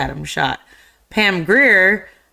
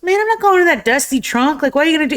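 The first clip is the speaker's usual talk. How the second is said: much higher, squeaky imitation of a scared guy; whiny protest; 10 semitones higher, much faster than usual. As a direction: whine and beg to stay out of the trunk. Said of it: "And there's just".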